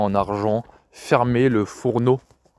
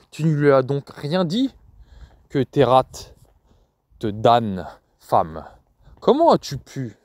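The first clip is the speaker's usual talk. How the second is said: mildly angry reproach, not shouted; understated anger at the woman. Acted. Father reproaching grandmother for hiding him, mild anger. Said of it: "Il était en colère".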